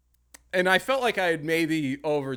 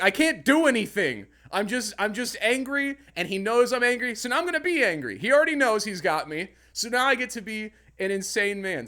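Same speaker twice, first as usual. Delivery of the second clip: mock rage; 7 semitones higher, 3 dB louder than usual. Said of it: "because I'm like".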